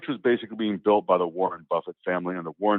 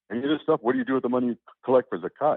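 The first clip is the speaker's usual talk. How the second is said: incredulous question; 5 semitones higher, faster than usual. Retold or imitated. Challenging the imam incredulously.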